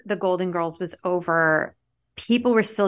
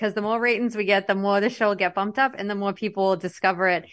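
broad r-less Massachusetts accent. Shown as a demonstration. Host asking listeners for ratings, Massachusetts accent. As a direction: keep the Massachusetts accent through the plug. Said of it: "in my mass".

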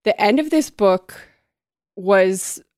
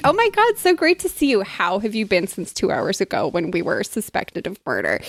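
mock chipper greeting; 2 semitones higher than usual. Suspects fake-greeting the detectives, mock chipper. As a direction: gush like overly friendly suspects. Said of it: "They're like".

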